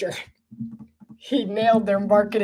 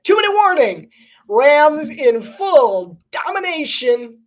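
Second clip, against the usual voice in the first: mock announcer call; 7 semitones higher, 6 dB louder, slower than usual. Announcing the game moment.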